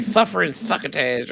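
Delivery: lightly lisping cartoon cat catchphrase; a quick hint of slobbery cartoon-cat lisp; Sylvester the Cat. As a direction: toss off a lisping cartoon quote. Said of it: "like listening to Sylvester the Cat".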